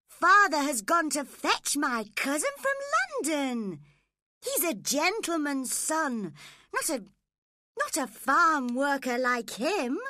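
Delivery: put-on high, loud, proud girl's voice; haughty young girl. Spoilt girl boasting about her cousin, high and haughty. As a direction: look down on him, pitched high.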